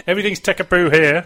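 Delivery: hammed-up Scottish catchphrase impression; Andy Gray. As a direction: exclaim it like an excited football pundit. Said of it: "he did say the ultimate".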